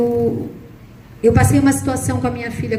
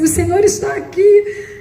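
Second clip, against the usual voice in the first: declaring faith; 5 semitones higher than usual. Retold or imitated. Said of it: "falei assim".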